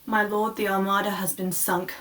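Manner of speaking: subdued herald with bad tidings; breaking bad news. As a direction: deliver grim news quietly and deferentially. Voicing the bearer of bad news.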